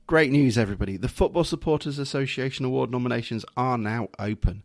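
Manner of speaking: polished announcer read for a club video; smooth, formal presenter delivery; posh presentation voice. Acted. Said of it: "your posh presentation voice there".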